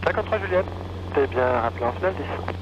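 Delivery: tinny radio transmission; over a radio. Real, not acted. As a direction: heard through the headset. Tower calls over the radio.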